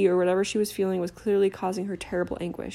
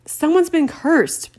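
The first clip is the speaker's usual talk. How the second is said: slow, much higher and louder bellow; 9 semitones higher, 7 dB louder, slower than usual. Acted. Harry to Hagrid over the wind, bellowing. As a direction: bellow every word over the gale. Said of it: "bellowed Harry".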